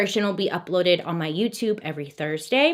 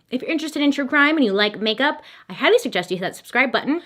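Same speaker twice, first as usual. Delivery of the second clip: rushed, breathless and fast; out of breath; 4 semitones higher, faster than usual. Real, not acted. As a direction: race through it short of air. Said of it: "'cause I'm out of breath".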